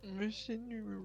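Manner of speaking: hushed, breathy whisper. Acted. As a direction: whisper it sadly. Quiet sad farewell.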